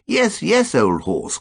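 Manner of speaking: cried. A narrator's reading. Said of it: "cried Ukridge".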